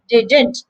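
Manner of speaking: "Didn't" as DID-nt, nasal N at the end; model pronunciation. Shown as a demonstration. Teacher modelling the word, nasal ending. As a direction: end "Didn't" through the nose. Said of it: "Using your nose".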